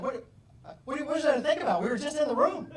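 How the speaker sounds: yelling high and loud, half laughing; mock angry yelling. To his father who won't answer, a mock yell. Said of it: "Why are you yelling?".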